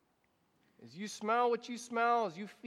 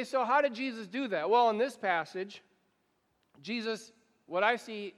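preaching; 3 semitones higher than usual. Acted. Pastor urging the congregation to serve, preaching. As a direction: press the call toward people. Sermon rises to exhortation.

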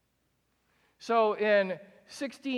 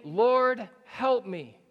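kneeling plea; 4 semitones higher, 7 dB louder, much slower than usual. Acted. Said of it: "knelt before him".

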